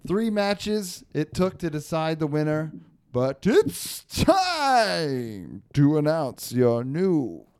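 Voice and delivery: slow, booming, stretched championship call; fighting game announcer. Pretend. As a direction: build up to the big reveal. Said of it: "Pretty good announcer voice".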